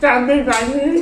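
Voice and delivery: slow, mouth crammed with marshmallows; cheeks stuffed full. Real, not acted.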